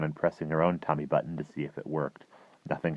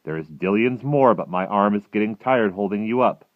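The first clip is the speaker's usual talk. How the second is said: loud, higher-pitched giant's voice; BFG; 4 semitones higher, 13 dB louder than usual. A narrator's reading. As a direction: explain it big and emphatically. The giant ends the reading.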